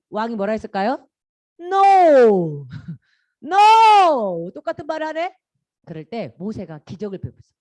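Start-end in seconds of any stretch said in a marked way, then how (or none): 1.6-4.5 loud, high, long-drawn "no"; hammed-up royal refusal; shouted refusal. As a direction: bellow it theatrically and let it fall. Pharaoh refuses again, acted.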